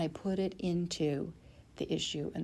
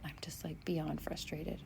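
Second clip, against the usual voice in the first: whispered frustration; 6 dB quieter than usual. Real, not acted. Venting frustration at work.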